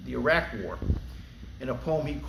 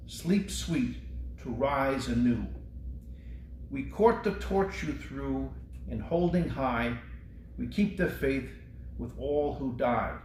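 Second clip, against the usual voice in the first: slow, solemn memorial poem reading; poem recitation. Acted. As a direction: recite it like a tribute to the fallen.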